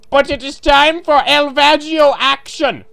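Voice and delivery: high, loud fanfare delivery; loud, excited proclamation; hype announcement. Pretend. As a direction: announce it like a big event. Announces the cat's return.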